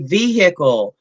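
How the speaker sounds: "vehicle" with the h sounded, VEE-hick-ul; own regional pronunciation. Shown as a demonstration. Woman saying "vehicle" on Kate's request, own regional pronunciation. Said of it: "Kate wants me to say".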